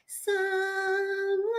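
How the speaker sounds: a tiny, slow, stretched-out mouse singing; lightly voiced singing mouse. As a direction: sing it like a little cartoon mouse. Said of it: "I'm trying to d-, do the mouse voice".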